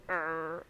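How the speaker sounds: low, quiet imitated growl; small grumpy "arr" of a mad little creature; mock angry growl. Friend imitating angry baby Yoda, mock growl. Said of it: "so mad".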